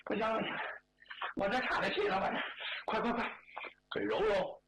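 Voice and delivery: acted groaning, short pained phrases; winded from a kick. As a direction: moan and plead for a rub, winded. (岔了气，哎呀叫疼)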